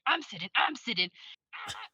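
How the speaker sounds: lightly voiced comic character; quirky quoted character voice; Toot Toot. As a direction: do a funny audiobook character, ending on a small high "ah". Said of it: "is, like, my favorite character".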